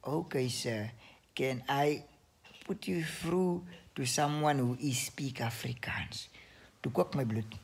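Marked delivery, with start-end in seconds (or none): 0.0-6.3 soft, slow near-whisper; slow whispered agent voice; hushed mock agent. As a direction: imitate a polite call agent softly. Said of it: "En sy is sy".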